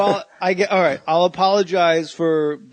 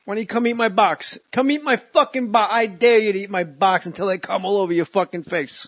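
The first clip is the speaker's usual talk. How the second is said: higher, hammed-up bully taunt; mock bully; 5 semitones higher than usual. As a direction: taunt like a silly schoolyard bully. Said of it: "The bully where shit".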